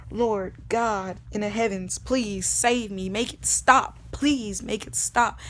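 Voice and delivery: slow, drawn-out plea to heaven; retold desperate prayer, building in force; begging and pleading. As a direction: beg God for rescue, leaning on each word. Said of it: "begging and pleading and begging".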